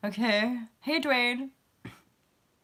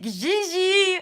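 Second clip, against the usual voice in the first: excited call; 11 semitones higher, 6 dB louder than usual. Real, not acted. Calling the dog again.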